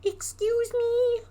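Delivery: very high, slow, drawn-out eerie voice; mysterious cave voice. Acted. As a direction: stretch it out like a spooky stranger in the dark.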